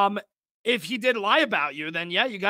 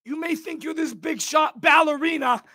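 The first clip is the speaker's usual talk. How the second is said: higher, loud mock yell at Joe; mock angry dad; 4 semitones higher, 3 dB louder than usual. Streamer imitating the dad calling Joe a ballerina, hammed-up shout. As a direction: bark it like a cartoon mob dad. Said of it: "he's like".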